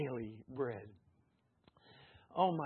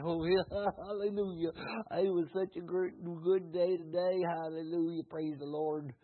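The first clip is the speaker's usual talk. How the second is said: mock casual churchgoer. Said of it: "a Sunday where you come and".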